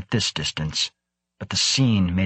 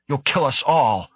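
higher, alarmed protest; insisting; 6 semitones higher than usual. A narrator's reading. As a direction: escalate the plea in alarm. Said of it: "Karlstedt insisted".

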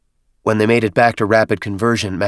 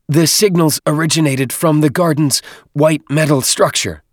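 higher squeaky alien voice; squeaky little voice; 8 semitones higher, 5 dB louder than usual. Acted. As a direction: squeak it like a small creature. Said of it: "Dadab's muffled voice squeaked".

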